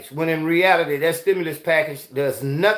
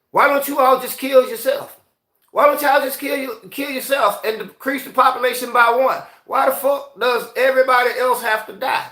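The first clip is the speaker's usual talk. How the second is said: indignant rant; 5 semitones higher than usual. Real, not acted. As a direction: pitch jumps up high, heated and exasperated. Ranting at eugenicists, rhetorical challenge.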